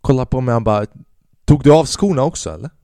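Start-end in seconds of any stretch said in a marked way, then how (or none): 1.5-2.7 mocking. Dealer mocking the buyer.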